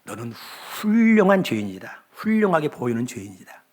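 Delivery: slow, firm rebuke with weight on 훌륭한; a solemn inner voice, lightly voiced; the Spirit rebuking the preacher, slow and firm. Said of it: "성령님께서 내 마음에 이런 질문을".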